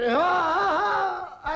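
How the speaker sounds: long, high cry of protest; drawn-out wail. Acted. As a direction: stretch the cry out slowly. Cry during comic fuss over jacket.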